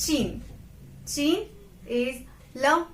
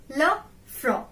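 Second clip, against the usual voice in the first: It's le front said slowly, le front spelled out in sound; slow down on le front so students catch it; slow model pronunciation. Shown as a demonstration. Teacher slowing down le front for learners. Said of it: "Repeat after me".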